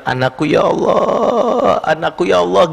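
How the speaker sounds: a hint of a weeping mother calling to God; mother crying out. Preacher retells a mother weeping at night, slow tearful wail. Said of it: "ibunya itu nangis gitu".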